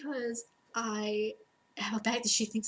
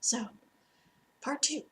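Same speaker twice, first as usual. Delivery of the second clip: whispered aside. Real, not acted. Aside ending the video.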